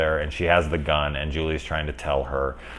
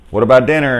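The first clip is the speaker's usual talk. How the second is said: louder, higher call across the water; mock calling out; 6 semitones higher, 8 dB louder, faster than usual. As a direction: call out an invitation from afar.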